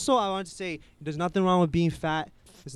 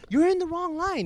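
told-you-so; 12 semitones higher than usual. Retold or imitated. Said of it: "I was like".

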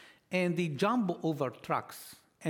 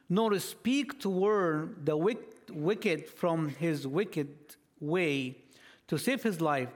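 scripture reading; 3 semitones higher than usual. Acted. Preacher reading Ezekiel to the congregation, solemn and slowed. Reads Ezekiel passage aloud.

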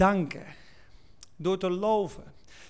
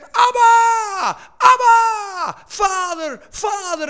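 loud, high cries, easing slightly toward the end; believer's shouted cry; 11 semitones higher, 14 dB louder, much slower than usual. Acted. Believer cries out to God the Father, shouting repeatedly. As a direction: cry it out with full conviction. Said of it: "je dat gelooft en je zegt".

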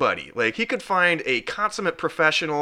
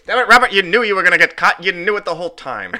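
put-on old-timey voice; 4 semitones higher, 5 dB louder than usual. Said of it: "That's more old-timey baseball".

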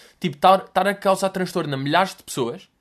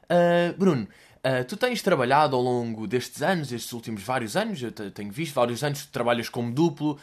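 rambling interviewer tone; 4 semitones lower, 3 dB quieter than usual. Retold or imitated. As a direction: drag out the question without landing. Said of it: "Reparem neste tom de pergunta longa".

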